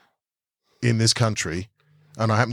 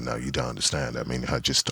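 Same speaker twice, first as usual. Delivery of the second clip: imitating the guy; 11 semitones lower, 6 dB quieter than usual. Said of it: "He was like".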